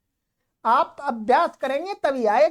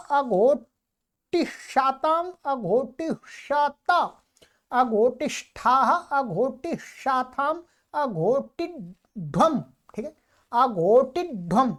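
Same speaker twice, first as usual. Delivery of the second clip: measured, rhythmic grammar drill; paradigm recitation; slower than usual. Shown as a demonstration. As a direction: recite the verb forms evenly.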